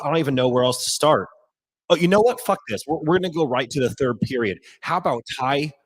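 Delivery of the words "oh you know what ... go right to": sudden higher, louder burst of excitement; hyped sudden exclamation; real hyped outburst. Real, not acted. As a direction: blurt it out, buzzing with adrenaline. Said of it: "I am so fucking jacked up right now".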